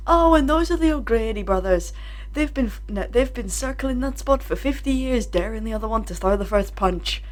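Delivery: a light, bad Irish accent; a faint stab at Irish; terrible Irish accent. Retelling a Family Guy joke, weak Irish accent. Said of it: "ignore my terrible Irish accent".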